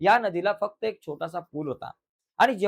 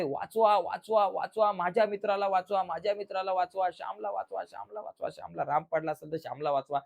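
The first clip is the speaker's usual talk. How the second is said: repeated pleas, slightly raised pitch, fading away; mock cry for help; 2 semitones higher, 3 dB quieter than usual. Shyam calling for someone to save his friend, mock yell. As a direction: imitate a boy calling out, without real volume. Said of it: "जोरात ओरडतोय".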